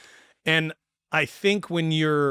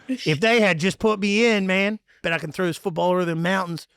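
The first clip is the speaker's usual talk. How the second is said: Uncle Rico; 4 semitones higher than usual. Retold or imitated. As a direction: brag like a has-been who still thinks he could have gone pro. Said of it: "like Uncle Rico".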